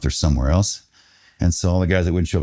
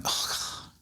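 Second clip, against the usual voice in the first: barely voiced, sinking groan of words; acted-out dread under the breath; hushed dismay; 14 dB quieter than usual. Stunned reaction to seeing commanders.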